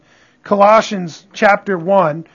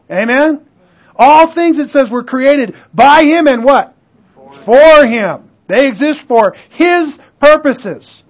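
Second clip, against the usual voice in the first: raised, ringing pulpit delivery; emphatic preaching; 5 semitones higher, 5 dB louder than usual. Real, not acted. Preacher declaring Jesus supreme to his congregation, emphatic and raised. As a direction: drive each point home to the congregation.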